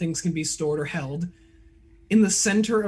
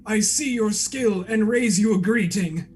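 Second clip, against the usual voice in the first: lightly voiced grand eccentric; flowery and gracious; a hint of pompous gratitude; eccentric Tinby; 3 semitones higher than usual. Tinby thanks the rescuer.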